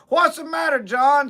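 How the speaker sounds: hollering up. Retold or imitated. Hunters below yelling up to John, high worried holler. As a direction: shout up to a friend out of sight.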